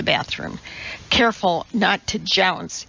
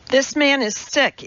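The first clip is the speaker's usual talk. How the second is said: higher-pitched call to a line of people; raised but restrained public call; 7 semitones higher than usual. A narrator's reading. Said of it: "Elizabeth called to the bathroom line".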